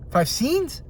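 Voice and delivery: high, rising disbelief; incredulous. Real, not acted. Film fan balking at an actor's tiny role, incredulous. Incredulous repeat of his own figure.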